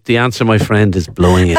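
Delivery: mock-solemn lyric quote. Host answering with a song lyric, mock-solemn. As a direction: intone it low like a weighty pronouncement.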